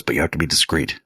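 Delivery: low imitation of a Jamaican accent; lightly put-on Jamaican voice, very low; Jamaican man. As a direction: drop the pitch for a mock Jamaican local. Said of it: "He goes".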